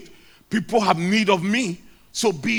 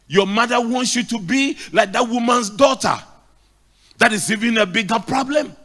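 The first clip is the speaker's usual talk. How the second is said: rising preaching; 3 semitones higher, 5 dB louder than usual. Real, not acted. Preaching builds to a peak.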